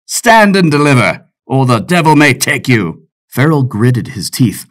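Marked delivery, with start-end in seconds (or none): 0.1-3.1 bold raised call of a highwayman; pirate's shout. Acted. Man in black holding up the soldiers, cocky shout. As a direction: call it out loud with swagger.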